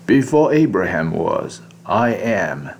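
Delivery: slow, solemn English quote; lightly voiced solemn Jesus, slowed down; quoting Jesus. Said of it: "所以当耶稣说".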